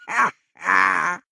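high, loud laughing; hearty laugh. A narrator's reading. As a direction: burst out laughing. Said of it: "laughed Scrooge's nephew".

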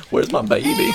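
very high cracking cry-laugh; high squeaky call. Pretend. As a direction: squeal for the baby. Calling for babies.

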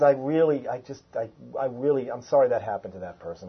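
low, soft, hesitant condolence; heartfelt sympathy. Acted. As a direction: play someone quietly feeling sorry for another. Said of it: "Feeling sorry is".

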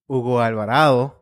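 pointed emphasis on the name; emphatic. Real, not acted. Storyteller naming the boy who spilled his juice, emphatic. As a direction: say the name with a touch of anger. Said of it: "He said it so angry".

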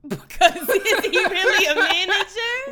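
loud, high incredulous laughing question; dragged-out, laughing. Real, not acted. Defending herself to co-host about the manager, dragged-out laughing disbelief. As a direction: crack up while stretching out the question. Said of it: "Why did you drag it like that?".

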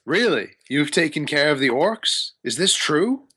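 lightly voiced wizard, mildly astonished; surprised wizard. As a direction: question them in disbelief, rising at the end. GM voices wizard Hamun Kost.

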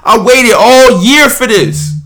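real angry yelling; outraged, high-pitched venting; mad. Real, not acted. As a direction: yell it, high and loud, at the end of your patience. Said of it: "I'm so mad".

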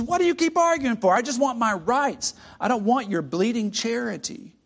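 high, loud, scornful refusal; a ghost spurning charity; indignant ghost. Acted.

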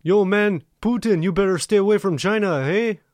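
high, loud mock Chinese accent; comic, hammed-up Chinese accent. Shown as a demonstration. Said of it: "No, it's a Chinese guy".

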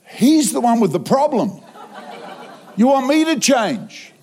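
high-pitched comic indignation; indignant protest. Retold or imitated. Preacher arguing back at God about who must change, indignant.

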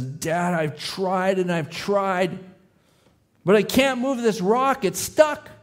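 put-on a small boy's voice, rising high near tears; tearful child. Little son tells his dad he can't move the rock, tearful. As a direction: plead like a frustrated little boy close to crying. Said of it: "with tears in his eyes".

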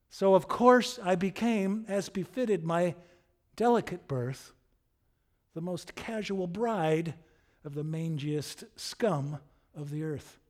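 understated theatrical scorn, settling at the end; scoffing. Acted. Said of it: "And she scoffs at him".

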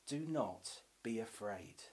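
soft, low, near-whispered reassurance; hushed imitated whisper. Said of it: "let God whisper to you".

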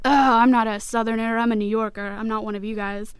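mock protest of a fourteen-year-old; protesting teenager. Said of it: "I was fourteen when I moved, so it was like".

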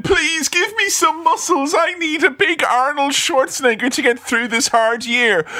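mock pleading. Pleading for Arnold muscles.

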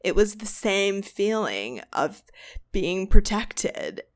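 put-on retelling in a light California accent; dreamy West Coast lilt, lightly done. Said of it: "this accent".

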